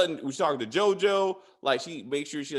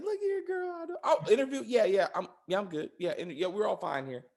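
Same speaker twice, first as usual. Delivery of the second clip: high-pitched mock of a distracted interviewer, settling toward usual pitch; distraída fingida; 4 semitones higher than usual. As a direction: act out someone caught off guard, pitch dropping as you recover.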